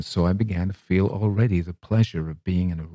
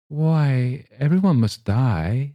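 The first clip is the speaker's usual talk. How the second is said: higher, slow, wide-eyed wonder; wondering child; 6 semitones higher, 3 dB louder, slower than usual. Acted. Child wondering aloud to the old lady. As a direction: say it like a puzzled child. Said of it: "said I wonderingly".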